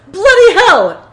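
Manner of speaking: loud, drawn-out British exclamation; high, hammed-up British outburst; mock British. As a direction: cry out in a put-on British accent. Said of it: "he was British".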